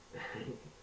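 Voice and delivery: breathy villain chuckle; soft mocking laugh; evil laugh. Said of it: "laughed the Black Mutant".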